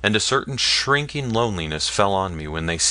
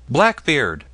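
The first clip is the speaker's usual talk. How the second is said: bold shout, higher and loud; shouted name; 6 semitones higher, 4 dB louder than usual. Acted. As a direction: call the name out boldly. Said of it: "some of the bolder shouted".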